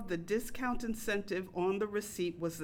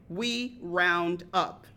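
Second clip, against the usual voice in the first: very slow, a bit louder; drawn-out brush-off; 3 semitones lower, 4 dB louder, much slower than usual. Retold or imitated. Waitress telling customer they round up, slow and dismissive. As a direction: stretch it out like it's obvious.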